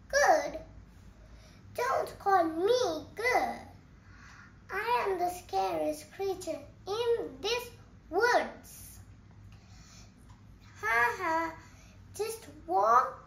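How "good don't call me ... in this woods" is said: indignant retort. Acted. Mouse retorts to gruffalo.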